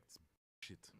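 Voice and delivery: terrible attempt at another speaker's accent; badly imitated accent, short deadpan verdict; Nemesis. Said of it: "That's my terrible Nemesis accent".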